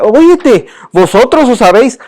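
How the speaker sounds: put-on half-hearted Peninsular Spanish accent; mock Spaniard. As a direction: tease in a hinted Spain Spanish accent. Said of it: "hablas como un español así".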